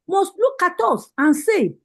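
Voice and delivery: rousing rally address, rising on each call; fiery political speech. Real, not acted. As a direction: preach it to the party women like a campaign rally. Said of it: "spitting fire".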